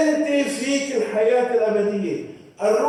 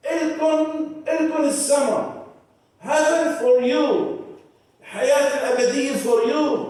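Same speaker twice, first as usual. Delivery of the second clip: higher, fervent announcement; excited proclamation; 5 semitones higher than usual. Acted. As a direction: lift the promise up to the crowd. (إعلان متحمس بنبرة أعلى)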